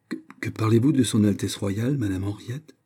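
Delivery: a mild stammer of disbelief; stammering shock. Acted. Stunned old lady stammers at the news, mildly. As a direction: stumble over the words, stunned. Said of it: "balbutia la vieille dame".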